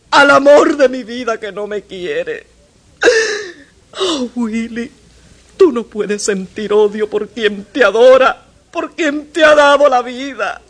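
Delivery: tearful plea, rising and breaking; weeping mother. Acted. Mother weeping as she begs her son to come. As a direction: cry out to the boy.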